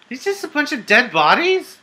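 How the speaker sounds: high-pitched, shocked question; startled disbelief. Real, not acted. Player finding dead bodies in game, startled. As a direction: blurt it out in rising disbelief.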